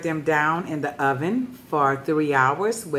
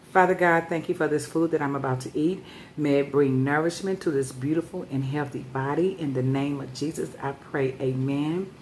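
prayer. Real, not acted. Says grace before eating.

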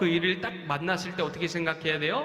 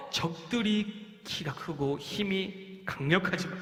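confident spy; 5 semitones higher than usual. Acted. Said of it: "이렇게 이야기해요".

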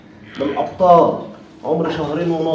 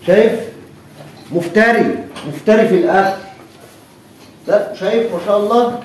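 excited praise; 5 semitones higher, 3 dB louder than usual. Real, not acted. Seller excited over the calf eating.

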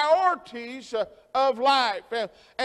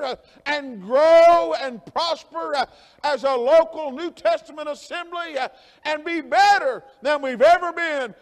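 fervent preaching. Acted. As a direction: urge the church on with rising fervour. Preacher rises in fervour.

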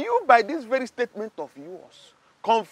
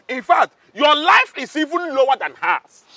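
shouted insult; 2 semitones higher than usual. Acted. Guard insults Stella.

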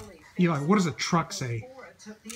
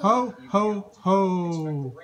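Santa ho ho ho; much slower than usual. Shown as a demonstration. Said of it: "How does he go?".

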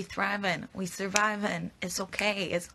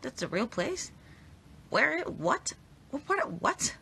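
surprised; 7 semitones higher than usual. Real, not acted. Surprised Cheshire is real.

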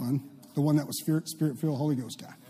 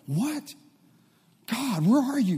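mock dismay; 8 semitones higher, slower than usual. Acting out doubt at obstacles.

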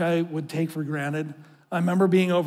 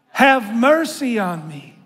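with more conviction; 3 semitones higher, 4 dB louder, slower than usual. Shown as a demonstration. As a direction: say it like you mean it. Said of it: "Say it one more time with a little conviction".

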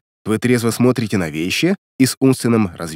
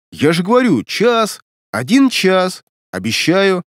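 higher, agitated pleading; heated insistence; 6 semitones higher, slower than usual. A narrator's reading. Илья promising it is only an hour, heated. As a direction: insist with raised pitch, getting worked up. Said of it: "закипятился Илья".

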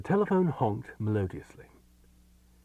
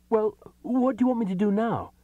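pitched up, giving in; resigned higher voice; 12 semitones higher, 5 dB louder than usual. A narrator's reading. Man asks his other self, higher and resigned. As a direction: ask it like you've given up. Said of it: "he asked at last".

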